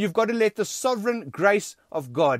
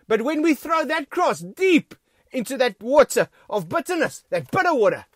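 loud, higher, driving sermon voice; preaching at full force; 4 semitones higher, 4 dB louder than usual. Acted. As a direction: preach it out hard to the congregation.

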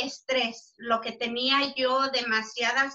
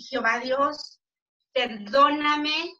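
crying plea; slower than usual. Retold or imitated. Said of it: "Y yo lloré y grité y dije".

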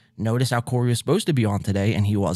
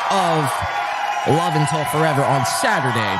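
excited announcement; 5 semitones higher than usual. Real, not acted. Excited book arrival announcement.

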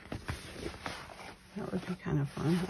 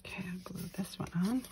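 soft unvoiced whisper; 7 dB quieter than usual. Real, not acted. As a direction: breathe it out quietly. Quiet crafting commentary.

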